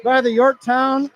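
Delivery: muffled through a face mask; calling the play behind a mask. Real, not acted. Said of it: "I'm calling the game inside a mask tonight".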